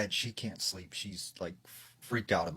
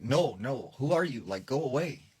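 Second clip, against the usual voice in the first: higher-pitched mock alarm, refusing; retold alarm; 4 semitones higher than usual. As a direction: play a rattled mom warding off a voice. Frightened mother refuses the voice.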